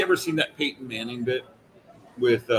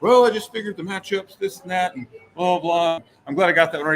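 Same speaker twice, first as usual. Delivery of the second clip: lightly voiced expert; 5 semitones higher, 4 dB louder than usual. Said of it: "he's just like".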